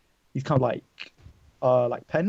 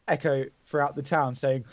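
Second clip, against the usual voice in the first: normal talking voice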